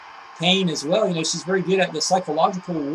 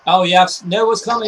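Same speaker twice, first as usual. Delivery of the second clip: excited; 7 dB louder than usual. Real, not acted. Calling a wrestling move live.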